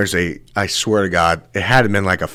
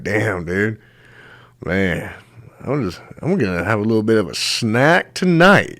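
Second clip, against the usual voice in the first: shark voice. Retold or imitated. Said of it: "This thing's looking at you like".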